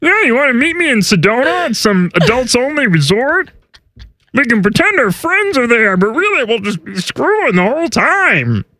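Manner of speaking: mock seductive reporter impression; Dianna Russini. Reporter inviting Vrabel to a resort, mock flirty impression. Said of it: "what she sounds like when she talks to Vrabel".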